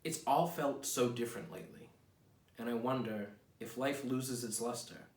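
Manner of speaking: slow, reflective poetry reading; poem reading. Acted. Reads his own poem aloud.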